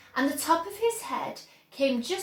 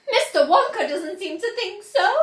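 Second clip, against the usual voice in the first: higher and louder, an indignant cry; cried out; 7 semitones higher, 8 dB louder than usual. A narrator's reading. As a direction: Mrs Gloop protesting. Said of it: "cried Missus Gloop".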